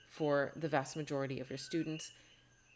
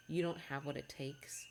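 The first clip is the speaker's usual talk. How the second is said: whispered inner doubt; 5 dB quieter than usual. Retold or imitated. Inner doubting voice in students' heads.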